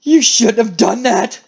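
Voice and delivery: slow, held-back menace; restrained threat. Acted. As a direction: warn the betrayer slowly, holding it in. Acted threat, first held back.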